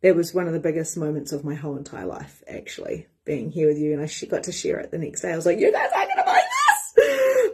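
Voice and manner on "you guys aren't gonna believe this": high laughing-crying shout; excited shout. Retold or imitated. Telling her sisters the big news, a high laughing shout. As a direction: burst out with the news, high and loud.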